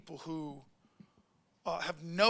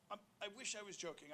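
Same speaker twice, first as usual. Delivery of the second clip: softer, quiet; stunned hush; 3 semitones higher, 20 dB quieter, much faster than usual. Retold or imitated. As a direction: go quiet, caught off guard. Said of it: "I go just like this".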